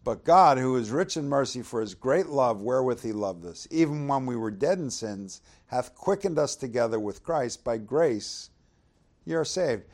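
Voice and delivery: "But God" called out loud, then steady reading; rereading the verses for the congregation, solemn; scripture reading. Acted. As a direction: proclaim the opening, then read on evenly. Rereads verses four and five.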